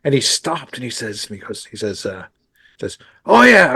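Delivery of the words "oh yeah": loud, high attempt at a Massachusetts accent. Imitating George greeting a young drummer, Massachusetts accent. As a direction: throw in a quick Massachusetts accent, half-hearted. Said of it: "I can't do the Massachusetts accent".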